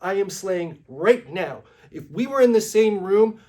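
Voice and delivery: indignant yelling. Retold or imitated. Influencer yells at the hotel operator about slaying, loud and high. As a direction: yell your self-praise at her. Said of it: "I'm sorry for yelling".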